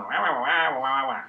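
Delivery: playful wah wah babble; mock how the kids hear a nagging dad; Charlie Brown teacher wah. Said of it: "they think I'm going".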